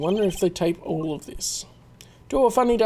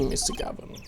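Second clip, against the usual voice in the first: surprised recognition; 9 dB quieter than usual. Acted.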